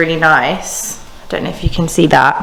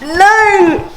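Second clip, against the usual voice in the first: high, loud sudden no; emphatic no; 10 semitones higher, 4 dB louder than usual. Real, not acted. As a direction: blurt out a firm no. Rejecting the Givenchy bag.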